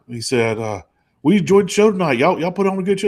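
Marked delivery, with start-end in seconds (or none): 1.2-3.1 높고 큰 레드넥 아빠 목소리; hammed-up Southern dad, higher and louder; redneck dad. Redneck dad voiced in story.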